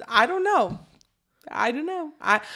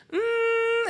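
high drawn-out "mm" of pondering; thoughtful hum; 12 semitones higher than usual. Retold or imitated. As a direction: hum as if mulling it over, pitched up. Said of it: "she, like, thinks for a minute".

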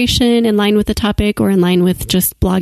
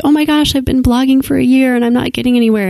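lightly voiced frustrated blogger, quicker pace; mock complaining bloggers; 4 semitones higher, faster than usual. Host imitating bloggers who complain online, mildly mock complaining. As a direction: lightly imitate someone griping in a rush.

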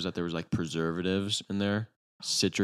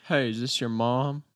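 higher sweet lady voice, lightly imitated; ambiguous voice; 5 semitones higher, 4 dB louder than usual. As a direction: chirp it like a sweet stranger. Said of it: "a very, like, ambiguous voice".

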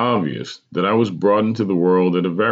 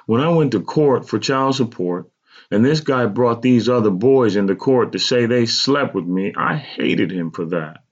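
higher-pitched hurt mother's voice; aggrieved mother admitting; 5 semitones higher than usual. A narrator's reading. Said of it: "my mother admitted".

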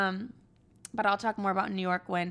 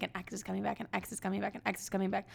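mocking tarot reader; 7 dB quieter, faster than usual. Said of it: "being like".

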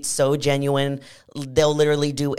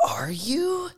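mock astonishment. Host reacting to a hinted comeback, mock surprised. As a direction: gasp and squeak in intrigued disbelief.

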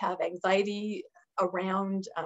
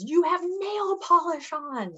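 slow, higher, disapproving leader voice; stern leader; 9 semitones higher, much slower than usual. Retold or imitated. Leader scolding a fourteen-year-old girl, slow and prim.

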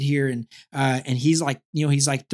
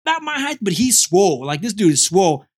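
excited; 4 semitones higher, 5 dB louder than usual. Retold or imitated. Retold racing thoughts.

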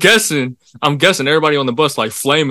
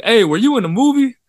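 put-on higher-pitched kid calling out; mock call from a distance, pitched up; imitated kid's yell; 9 semitones higher than usual. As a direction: mimic a kid hollering from a bus window. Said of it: "this kid yells out the window".

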